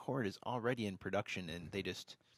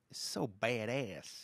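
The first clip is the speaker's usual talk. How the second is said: Eric Cartman voice; much slower than usual. Retold or imitated. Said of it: "Is that your, like, Eric Cartman impersonation?".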